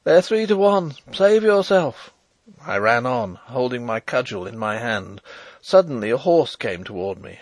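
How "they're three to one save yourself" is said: high, loud shout to a comrade; raised battle shout; urgent warning cry. A narrator's reading. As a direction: call out the warning with full urgency. Dying man calls a warning.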